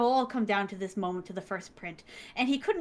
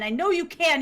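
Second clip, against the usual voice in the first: urging; 6 semitones higher, 6 dB louder than usual. Retold or imitated. Urging loudly.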